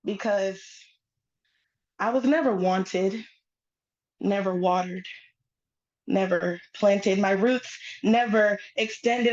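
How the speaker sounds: measured phrases with pauses between them; spoken-word poetry. Acted. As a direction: recite it as a poem on stage. Performs her spoken-word poem.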